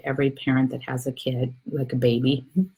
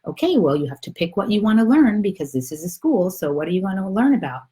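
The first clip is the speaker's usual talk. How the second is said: higher, animated storybook God; instructing God; 6 semitones higher, faster than usual. Acted. God asks the soul to pick a lesson, brightly instructing. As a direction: lay out the choice to an eager pupil. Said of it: "so he says to him".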